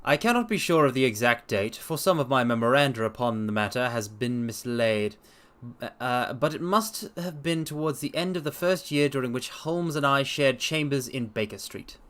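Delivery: measured storybook reading of a detective tale; story narration. A narrator's reading. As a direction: read it like a classic mystery to a listener. Dramatic reading of Sherlock Holmes.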